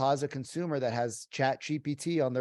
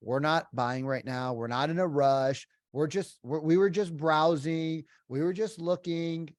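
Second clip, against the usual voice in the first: brushing-off prospect; 3 semitones higher than usual. Retold or imitated. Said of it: "the prospect typically says something like".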